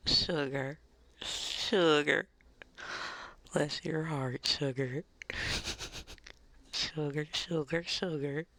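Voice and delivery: lightly played-up Southern sweetness; a touch of Southern belle; Southern endearments. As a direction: dote on them in a Southern accent. Playing up Southern pet names.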